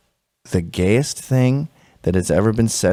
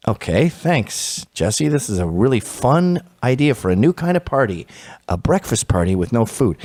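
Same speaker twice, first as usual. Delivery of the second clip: sarcastic thanks. Retold or imitated.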